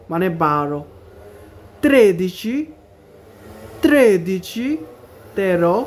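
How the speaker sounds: each number spelled out slowly and clearly for learners; slow careful Italian numbers. Shown as a demonstration. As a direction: say every Italian number twice, carefully, like a teacher drilling. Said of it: "ভালো করে এগুলোর উচ্চারণটা খেয়াল রাখতে হবে".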